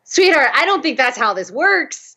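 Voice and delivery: high, gently hesitant fatherly voice; a father gently doubting his daughter; doubtful dad. Retold or imitated. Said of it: "he was like".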